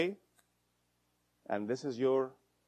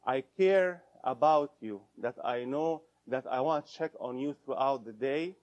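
caring I-statement. Shown as a demonstration. Therapist shows how to tell partner you care, gently. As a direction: say it with care, not blame. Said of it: "You own your need".

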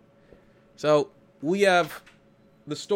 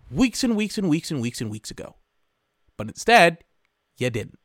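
angry retort. Retold or imitated. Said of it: "because I'm like".

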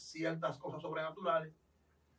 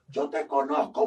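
demon voice; 3 semitones lower, 6 dB louder than usual. Retold or imitated. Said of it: "Me dijo".

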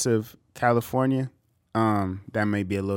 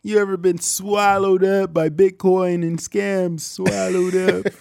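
high, loud, slow preacher parody; mock preacher; 11 semitones higher, 7 dB louder, slower than usual. Joining co-host's pastor parody, slow hammed-up preaching. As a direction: stretch it out like a televangelist.

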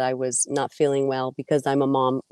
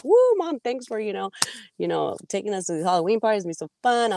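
put-on excited kids; 5 semitones higher, faster than usual. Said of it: "They're like".

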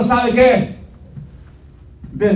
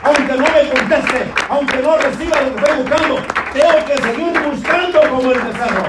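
full-force preaching; 3 semitones higher than usual. Acted. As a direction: drive the sermon home with fire.

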